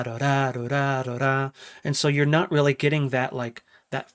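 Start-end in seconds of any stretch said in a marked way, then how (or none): 0.0-1.5 vocalizing palm-muted bass; muted bass imitation. Shown as a demonstration. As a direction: mouth a thin muted bass. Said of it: "It sounds like it's going ba".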